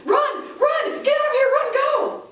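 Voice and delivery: high, urgent shouting; panicked brain. Acted. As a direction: yell it like an alarm going off.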